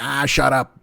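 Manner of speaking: lightly voiced irritable boss; a hint of a cartoon newspaper boss; J. Jonah Jameson. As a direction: dismiss him like a grumpy inner critic. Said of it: "sound like my buddy Jimmy O".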